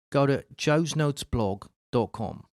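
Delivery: an accidental Australian twang on the plug line; a plug read with a light Australian accent; slipped into Australian. Real, not acted. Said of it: "That sounds a little bit too fucking Australian".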